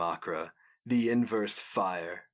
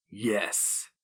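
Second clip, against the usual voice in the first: rasping creature hiss; like distant children screaming in wind; inhuman rasp. A narrator's reading. The Inkoroi admits worship, eerie rasp. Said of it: "A rasp like the screams of faraway children".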